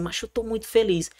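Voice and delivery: understated retold joy; retold happy coach. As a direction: mimic a coach sharing his happiness. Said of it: "meu técnico chegou pra mim e disse".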